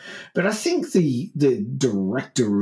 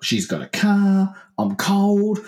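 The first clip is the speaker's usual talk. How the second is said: higher-pitched acted young man; hitchhiker's reasoning; 8 semitones higher than usual. Cold, wet man weighing up a lift, higher voice. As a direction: think it through aloud, pitched up. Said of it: "And he's like".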